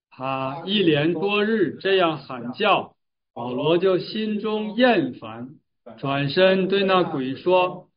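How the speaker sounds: slow, deliberate reading aloud of scripture. Acted. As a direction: lead the verse reading with drawn-out phrases. Reads scripture aloud together.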